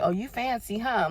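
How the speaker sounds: playful tease back. Retold or imitated. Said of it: "And I'm looking at God like".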